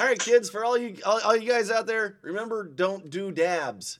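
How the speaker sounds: lightly voiced low anti-drug announcer; mock public service warning. Joking warning to kids about dabs, low mock announcement. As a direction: address the kids with a touch of mock solemnity.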